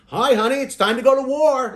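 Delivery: high falsetto wake-up call; sing-song high voice rousing a sleeper; gently waking a child. Pretend. Voices a spouse waking him.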